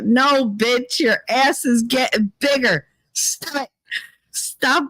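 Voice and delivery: high, exasperated comic rant; exasperated outburst. Real, not acted. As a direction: give up on her, laughing.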